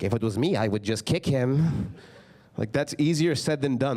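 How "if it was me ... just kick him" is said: imitating dad, lower and slow, dead sure; lightly voiced dad full of himself; confident dad. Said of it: "He's like".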